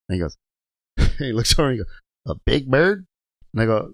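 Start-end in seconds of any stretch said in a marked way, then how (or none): 2.3-3.1 higher, questioning echo; mock puzzled repeat; incredulous trainer's voice. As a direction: imitate a skeptical old coworker. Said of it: "With that voice".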